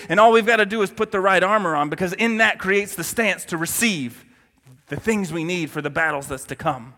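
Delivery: strained, fading hoarse voice; losing voice. Real, not acted. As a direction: voice giving out, hoarse. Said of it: "I'm losing my voice, guys".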